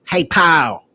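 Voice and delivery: lightly voiced dad calling him pal; imitating his dad. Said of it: "he came into my room and said".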